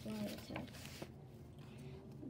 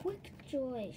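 urging. Acted. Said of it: "she urged".

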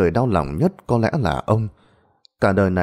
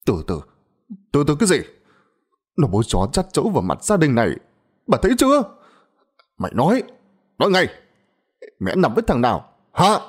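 higher, fast, furious yelling; raging father; 6 semitones higher, faster than usual. A narrator's reading. Father rages at wife and daughter, furious. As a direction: tear into them both.

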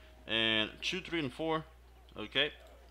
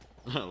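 short laugh. Real, not acted. Laughing at trainer's line.

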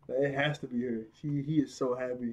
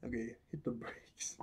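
calm down; 3 semitones lower, 12 dB quieter than usual. Retold or imitated. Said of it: "I'm like".

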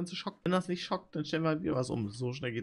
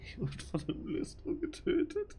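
laughing whisper; 8 semitones higher, 5 dB quieter, slower than usual. Real, not acted. Lachend geflüstert, dann wiederholt.

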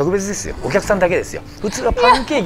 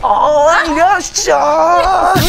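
high, slow bar mama greeting; old-fashioned hostess; 12 semitones higher, 4 dB louder, much slower than usual. Acted. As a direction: welcome them like a snack bar mama. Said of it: "古いよ、全部。".

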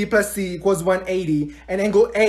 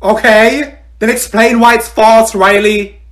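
loud, insistent challenge; pressing teacher; 6 dB louder, slower than usual. Acted. Teacher demanding Riley explain a changed answer, loud and insistent. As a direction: press the student loudly for reasons.

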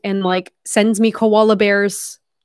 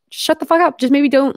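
annoyed comeback; 5 semitones higher, 4 dB louder than usual. Retold or imitated. Snapping back at nosy questioners.

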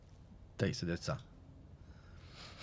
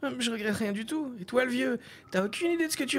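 put-on defiant boy; 13 semitones higher than usual. A narrator's reading.

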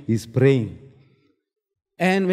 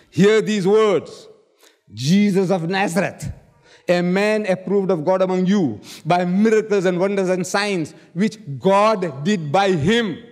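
solemn scripture reading; 3 semitones higher than usual. Real, not acted. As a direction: read it like a proclamation to the crowd.

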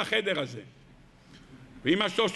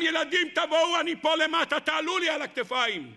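raised, higher calling voice; calling the children; 4 semitones higher than usual. Acted. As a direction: call them up onto your shoulders. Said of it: "הוא צועק לכולם".

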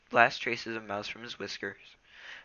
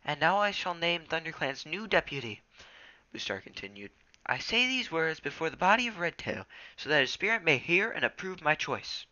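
solemn leader; 6 semitones higher than usual. A narrator's reading. Leader names deputy ceremonially.

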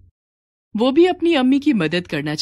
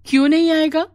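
firm encouragement; 8 semitones higher, 5 dB louder than usual. Acted. Mother consoling crying daughter.

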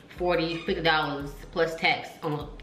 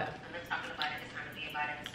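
much softer, drained "Enough talking about it", barely getting the words out; weak and defeated; 3 semitones lower, 13 dB quieter, faster than usual. Real, not acted. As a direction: mouth burning from the chip, softly repeating her hype line. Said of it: "Oh, God".

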